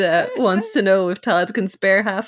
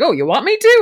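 mock eager mobster; 9 semitones higher, 6 dB louder than usual. Vincenzo mobster quote.

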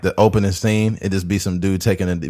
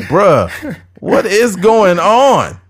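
slow, much higher disbelieving bruh; baffled; 9 semitones higher, 4 dB louder, much slower than usual. Retold or imitated. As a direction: drag it out in total confusion. Viewer baffled by the scene.

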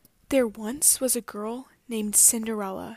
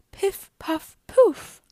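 magic words; 9 semitones higher, 9 dB louder, slower than usual. A narrator's reading. Magic appearing.

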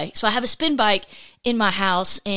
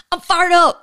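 higher and louder, pumped; fired up; 8 semitones higher, 7 dB louder than usual. Real, not acted. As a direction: announce it with real energy. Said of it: "I'm just excited".

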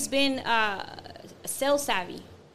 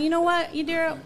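retold confrontation; 7 semitones higher, 7 dB louder than usual. Telling off coworker, retold.

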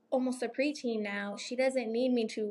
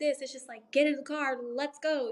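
higher, a hint of a marvelling grandma; imitating her mom; 4 semitones higher than usual. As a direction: lightly play grandma amazed at the ease. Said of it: "my mom's like".

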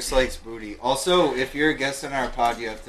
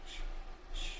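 hushed shh; whispered shush; 14 dB quieter than usual. Real, not acted. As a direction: shush them quietly before the prank. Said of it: "I'm gonna scare him".

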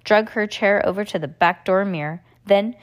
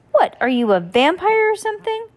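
high, disbelieving sister; incredulous; 11 semitones higher, 4 dB louder than usual. Acted. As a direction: scoff at him in disbelief. Sister mocking brother.

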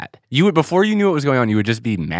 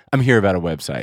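lightly mocked low detective voice; nerd detective; 6 semitones lower, faster than usual. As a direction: drop lower to imitate a nerdy detective. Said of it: "you're like nerd detective Alex Goldman".

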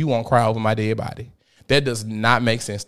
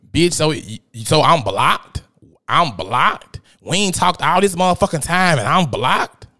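indignant ex-friend; 3 semitones higher than usual. Retold or imitated. Ex-friend confronts her on phone.

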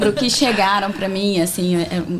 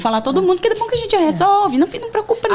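bright, fast and much higher, teasing the gossiper; sing-song boss calling everyone together, lightly laughing; mock cheerful boss; 10 semitones higher than usual. Boss cheerfully confronting the office gossiper, high and fast.

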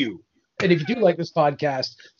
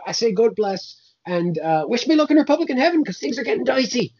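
a hint of a grumpy saint, cursing; grumbling old saint fed up with rumours; mild put-on Irish saint; lightly voiced Saint Patrick; 4 semitones higher than usual. Saint Patrick character bit.

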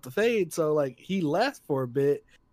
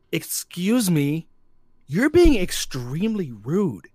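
stern scolding; 3 semitones higher, 6 dB louder, much slower than usual. Retold or imitated. Lady scolding the clapper.

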